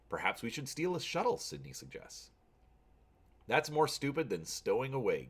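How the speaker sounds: steady storyteller read-aloud; story narration. A narrator's reading. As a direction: narrate the adventure evenly.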